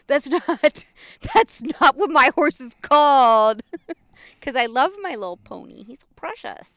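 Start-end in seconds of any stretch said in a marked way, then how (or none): 0.1-3.6 indignant retort, higher pitched; mock mad. Retelling protests at Dad's teasing nickname, mock mad. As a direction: protest at Dad, building louder with a laugh. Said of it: "Used to make me so mad".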